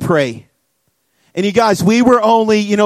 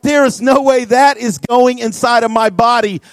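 mildly panicked refusal, pitched a bit up; replayed freak-out, lightly acted; retold freaking out; 3 semitones higher than usual. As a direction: act out a kid refusing the doctor, mildly alarmed. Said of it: "I'm, like, freaking out".

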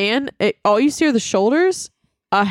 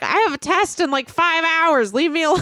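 higher-pitched mock plea, breaking into laughter; retold freak-out; 6 semitones higher than usual. Maddie with a test in hours, mock exasperation. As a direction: imitate an exasperated roommate, laughing at the end. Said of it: "we're, like, freaking out".

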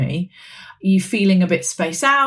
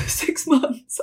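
shocked disbelief; 6 semitones higher than usual. Retold or imitated. Repeating doctor's verdict, shocked.

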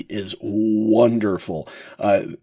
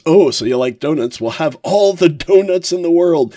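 mock devil voice, rising higher and louder; lightly hammed-up devil offering donuts; taunting devil; 6 semitones higher, 5 dB louder than usual. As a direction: tease him like a gleeful demon.

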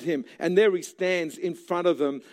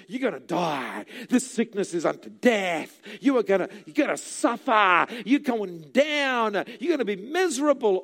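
devil's taunts; 2 semitones higher than usual. Retold or imitated. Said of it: "the devil says".

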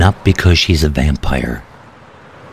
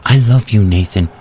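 through tears; 5 semitones higher, 3 dB louder than usual. Acted. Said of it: "said through the tears".

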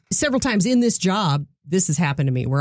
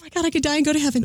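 mock rapture; 7 semitones higher, much faster than usual.

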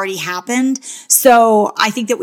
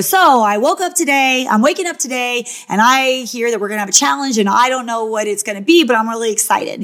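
confessional voice; 2 semitones higher than usual. Retold or imitated. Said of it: "you had to go".

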